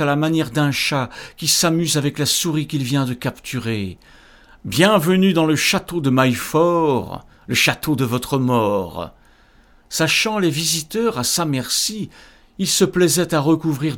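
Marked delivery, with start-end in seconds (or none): 4.6-9.1 booming demon lord, mocking; sepulchral ogre voice. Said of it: "sa voix sépulcrale méprisante".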